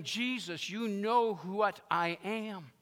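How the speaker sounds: acted aching admission, stretched out; Peter, broken. Peter owning who he is before Jesus, broken. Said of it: "In his broken way".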